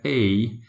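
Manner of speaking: "A" gliding down from the top; tone going down. Shown as a demonstration. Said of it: "it's like going down from top".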